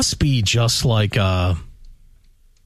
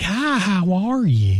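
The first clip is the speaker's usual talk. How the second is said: mock Oklahoma greeting; 6 semitones higher, slower than usual. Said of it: "none of them are like".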